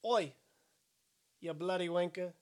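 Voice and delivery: put-on British voice, attempted on a dare; British accent. Shown as a demonstration. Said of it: "Do a British voice".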